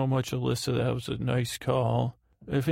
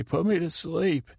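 mock demand; 5 semitones higher than usual. Mock quote of random people demanding.

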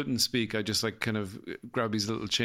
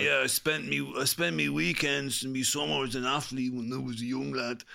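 rural Offaly lilt, a bit higher; broad Offaly country accent, pitched up; 4 semitones higher than usual. Pretend. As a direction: play a young lad from the Offaly boglands. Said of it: "that'd be one accent that he could have".

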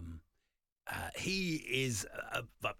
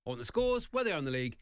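mock demanding fan; 3 semitones higher, 5 dB louder, much faster than usual. Voicing a football-only listener.

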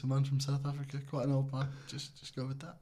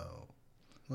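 deep; 14 dB quieter than usual. Acted. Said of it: "Do the Queen".

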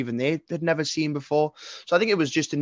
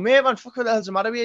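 high, loud retold disbelief; telling a friend off at a gig, loud and disbelieving; incredulous shout; 9 semitones higher, 4 dB louder, faster than usual. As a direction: yell at him like he's lost it.

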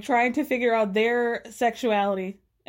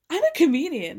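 mocking comedian; 3 semitones higher, 3 dB louder, faster than usual. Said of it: "as though comedian is a part of their identity".

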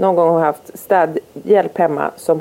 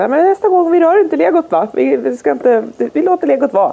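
sweetly coaxing; 8 semitones higher than usual. Retold or imitated. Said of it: "Jag bara".

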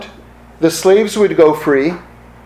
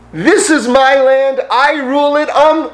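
lightly voiced boastful land owner; gruff scottish lord; 6 semitones higher than usual. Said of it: "no one says this part".

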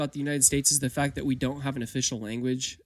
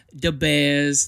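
slow, drawn-out Chicago "da Bears"; Chicago accent; 3 dB louder than usual. Shown as a demonstration. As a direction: do the Chicago fan accent, stretching it out. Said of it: "like, Chicago, you always think of".

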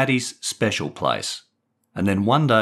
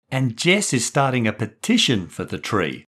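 excited; 2 semitones higher than usual. Acted. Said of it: "Matty chipped in excitedly".

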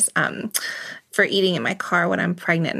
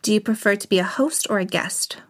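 rapid fire questions. Real, not acted. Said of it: "a few little rapid-fire questions".

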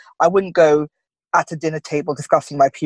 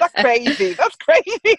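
put-on incredulous kid; 11 semitones higher, slower than usual. Daughter thinks mum joking.

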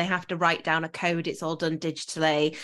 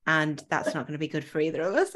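calm and polite; 3 semitones lower, 3 dB quieter than usual. Retold or imitated. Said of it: "It was so calm and polite".

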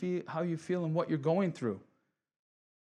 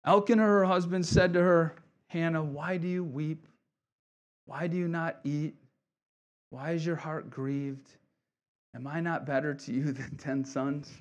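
scripture reading. Shown as a demonstration. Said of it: "I've never done this".

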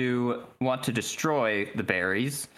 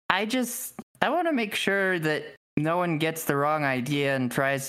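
lightly voiced character making a request; Draco, polite ruler; 2 semitones higher than usual. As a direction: ask a favour in a slightly raised character voice.

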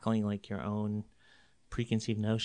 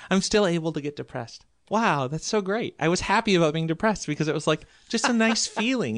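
higher, louder, laughing through it; amused disbelief, higher and louder; 6 semitones higher, 6 dB louder than usual. Real, not acted. Laughing about being depressed.

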